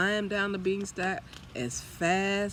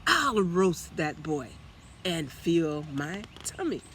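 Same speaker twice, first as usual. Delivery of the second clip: very high, loud booming chant; booming giant; 5 semitones higher, 8 dB louder, slower than usual. A narrator's reading. Giant sniffs for the hidden boy, loud and booming. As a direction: roar it out like a greedy giant.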